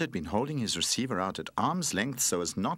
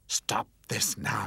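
scolding; 3 semitones higher, slower than usual. Acted. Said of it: "scolded Cuddly".

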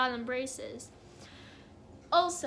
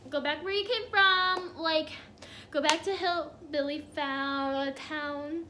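mock scolding. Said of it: "I was just standing there like".

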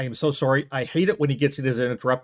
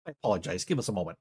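quiet apology; 9 semitones lower, 8 dB quieter, much faster than usual. Acted. Apologizing quietly after outburst.

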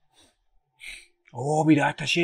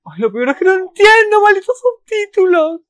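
frustrated outburst; 12 dB louder than usual. Real, not acted. Viewer yelling at the screen over broken subtitles, frustrated and loud. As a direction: groan it out, fed up with the subtitles. Fan can't follow mistimed subtitles.

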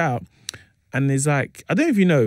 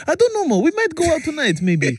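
mock American accent; 14 semitones higher than usual. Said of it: "my friend Chris".

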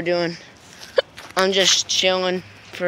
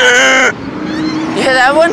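teasing shout; 6 semitones higher, 5 dB louder, much slower than usual. Real, not acted. Prankster calling out.

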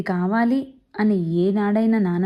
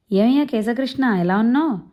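lightly voiced hearty old man, a bit higher; a hint of a brisk Godavari elder calling out; lively old man; 3 semitones higher than usual. Old neighbour greets the couple on his moped, hearty. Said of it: "Godavari యాసలో గబగబా మాట్లాడేస్తుంటారు".

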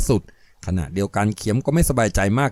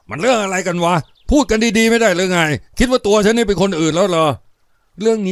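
higher, louder commanding rebuke; decisive stern voice; 7 semitones higher, 4 dB louder than usual. Acted. Khiam forcing himself to rebuke his armed underling, stern shout. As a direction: steel yourself and bark at him. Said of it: "ส่งเสียงเด็ดขาด".

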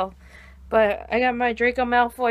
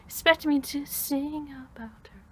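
softer, half-laughed character quote; Star Kid Draco; 3 semitones higher, 6 dB quieter than usual. Acted. Cosplayer quoting Draco to viewers, soft and half-laughing. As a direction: toss it off softly, breaking character with a laugh. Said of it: "Star Kid Draco, by the way".

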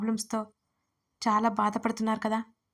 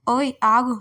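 much louder, giggling while being tickled; laughing protest; 7 dB louder, slower than usual. Acted. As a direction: push him off through laughter. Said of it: "నవ్వుతూనే చెప్పాను". (నవ్వుతూ, గిలిగింతలతో)

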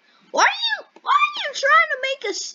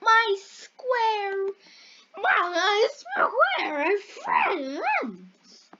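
three voices at once; much slower than usual. Acted. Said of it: "I tried to do three voices at once".

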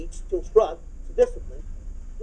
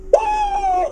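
high, loud stadium whoop; football fan whoop; 6 dB louder than usual. Retold or imitated. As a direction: cheer like your team just scored. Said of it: "I get excited about the stupid Bears".

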